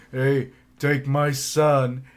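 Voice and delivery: loud, high, slow mock call; hammed-up desperate plea. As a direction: call out slowly, pleading in jest. Voices imagined dad handing over son.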